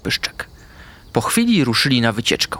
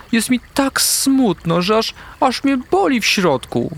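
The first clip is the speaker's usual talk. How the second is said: sad whisper; 10 semitones higher than usual. A narrator's reading. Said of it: "wyszeptała".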